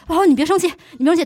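calm down an upset wife, lightly voiced; a hint of a doting husband; coaxing husband. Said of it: "他就说那个".

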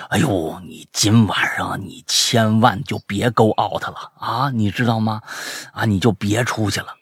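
low, slow imitated caution; earnest warning. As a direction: advise a friend gravely, voice dropped. Friend's earnest warning acted out.

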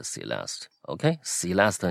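Celeste重音在L，念得清楚; correct pronunciation. Shown as a demonstration. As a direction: Celeste said slowly with the L syllable stressed. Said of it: "它是这样念的". (示范Celeste的正确读法)

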